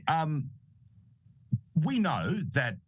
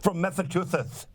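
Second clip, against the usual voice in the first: laughing; 2 semitones higher than usual. Real, not acted. Laughing at fake Spanish story.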